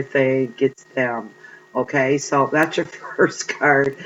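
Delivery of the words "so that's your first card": laughing. Real, not acted. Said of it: "I'm still laughing".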